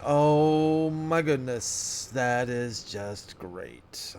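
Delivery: slow sarcastic groan. Real, not acted. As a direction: drag it out, fed up. Weeds found growing in field.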